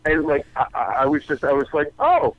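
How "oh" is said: high-pitched taunt into the phone; mock-delighted comeback. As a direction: relish confronting the caller. Retells answering the complaining parent.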